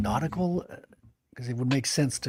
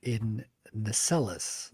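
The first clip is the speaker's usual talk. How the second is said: steady storybook reading voice; narrator voice. Shown as a demonstration. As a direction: read it like an audiobook narrator. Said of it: "my narrator voice".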